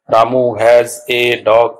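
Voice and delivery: very slow, each word set apart; slow teacher's word-by-word reading. Shown as a demonstration. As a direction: read out "Ramu has a dog" one separate word at a time. Separates the sentence into words.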